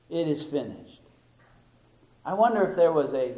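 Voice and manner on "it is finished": soft, solemn final words; hushed and solemn. Retold or imitated. Preacher quoting Christ on the cross, hushed and solemn. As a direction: let it fall quietly.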